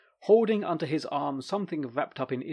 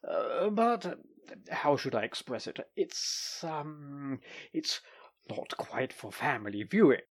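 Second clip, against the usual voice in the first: embarrassed muttering. Acted. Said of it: "he muttered".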